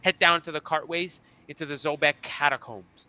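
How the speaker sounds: kobold king instructions. Acted. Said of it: "He goes".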